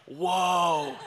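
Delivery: high, loud, drawn-out whoa; startled dad. Retold or imitated. Dad hears son wants a sniper rifle, startled. Dad reacting to son's request.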